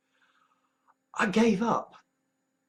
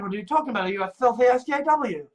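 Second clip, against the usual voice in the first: hammed-up accusing questions, rising louder; mock accusation; 5 semitones higher, 5 dB louder, much faster than usual. Accuser challenging a supposed SJW, mock accusation. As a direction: play the indignant accuser.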